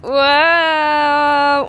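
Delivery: loud, high delighted wow; excited wow. Real, not acted. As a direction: gasp in delight. Showing off party outfits. (waouh ravi et fort)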